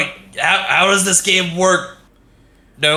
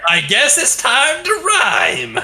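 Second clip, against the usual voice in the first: game-on call; much slower than usual. Acted. Character accepting rhyme challenge.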